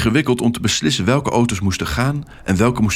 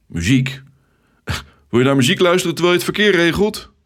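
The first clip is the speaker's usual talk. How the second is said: a laugh, then higher and faster; amused, quick and high; laughing disbelief; 9 semitones higher, 4 dB louder, faster than usual. Acted. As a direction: laugh off the strange question. Ted laughs at odd question.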